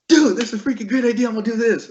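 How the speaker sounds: high-pitched mock eureka burst; excited realization. Retelling his excited idea at work.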